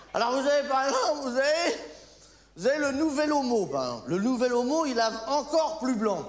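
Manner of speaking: ad announcer. Acted. Parody of a detergent ad.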